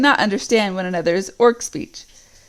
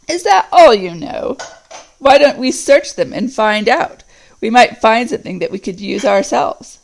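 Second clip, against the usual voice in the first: suspicious orc; 5 dB louder than usual. Acted. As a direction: demand to search them. Orc questions the others.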